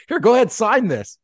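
high, mock-innocent offer; teasing high voice daring him; playful dare. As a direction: hand it over with a cheeky grin. Teasing friend with atheist contract.

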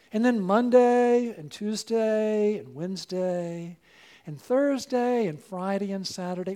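ordinary talk, nothing marked

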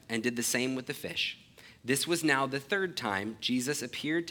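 measured, solemn Bible reading; a steady public reading of scripture. Acted. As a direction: read the passage clearly to the congregation. Reads the Gospel passage aloud.

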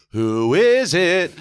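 put-on loud, high, stretched-out drunk yell; drunken call-out. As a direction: call through the door, drunk and very slow. Drunk, calling through the door.

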